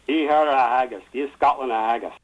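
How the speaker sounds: poem's refrain in a Scottish brogue; best Scottish accent. Shown as a demonstration. Guest repeating the poem's last line for the host, Scottish accent. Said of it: "do my best Scottish accent".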